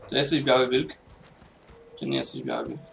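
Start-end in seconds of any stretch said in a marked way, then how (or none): 2.0-2.8 low voice. Pretend. Questioning the wolf in-game.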